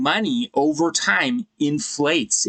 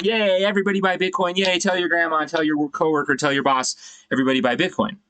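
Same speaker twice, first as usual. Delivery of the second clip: mock hype; 5 semitones higher than usual. Mocking hype of bull run.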